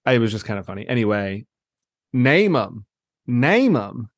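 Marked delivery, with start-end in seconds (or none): 2.1-2.9 lightly imitated Southern catchphrase; Southern accent. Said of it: "It's the Southern accent". 3.3-4.1 lightly imitated Southern catchphrase; Southern accent. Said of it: "It's the Southern accent".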